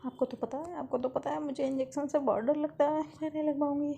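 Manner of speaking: put-on high whiny child begging mom not to get the shot; scared pleading. Girl begging her mom to skip the injection, high and whiny. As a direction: plead like a frightened little girl.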